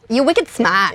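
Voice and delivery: imitated Boston talk, R dropped in smart; Boston accent. Trying the accent he just taught, Boston accent. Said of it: "you can do the accent".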